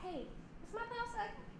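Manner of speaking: soft, high anxious question; quietly ask, unsure; self-doubting woman checking her blouse; worried. Retold or imitated. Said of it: "And then you go".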